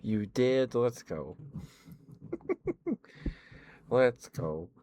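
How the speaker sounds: loud happy hype; excited cheer. Real, not acted. Cheering a viewer.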